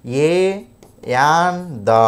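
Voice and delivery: each word held long with gaps; slow spelled-out listing. Shown as a demonstration. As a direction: list them one at a time, drawn out. Listing the articles for students. (ఒక్కో పదాన్ని సాగదీస్తూ, ఆగి ఆగి పలకడం)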